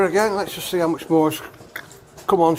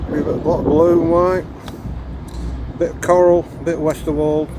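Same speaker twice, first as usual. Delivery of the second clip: raised voice against the wind; shouting over wind; 3 dB louder than usual. Real, not acted. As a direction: project loudly over gusts of wind. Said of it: "if you can hear me over the wind".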